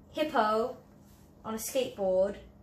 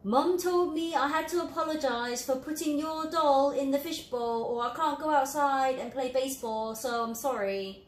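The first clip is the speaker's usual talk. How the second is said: put-on grudging, high-pitched kid's apology; reluctant child forced to say sorry to a friend, grudging; insincere apology; 5 semitones higher, 3 dB louder than usual. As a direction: apologize only because Mum said so. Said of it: "this one is the one not being sincere".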